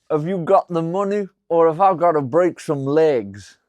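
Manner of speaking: put-on Italian mobster accent, threatening a debtor. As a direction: lean into a heavy Italian gangster accent. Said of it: "What do you think of my Italian accent?".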